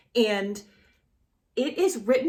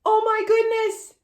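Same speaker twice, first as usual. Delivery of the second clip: much higher, louder storybook alarm; mock shock; 5 dB louder than usual. Reading the fall from the tree, hammed-up shock. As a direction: play the twist big for the kids.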